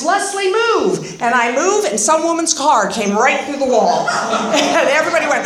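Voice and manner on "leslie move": retold yell. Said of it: "my sponsor yells".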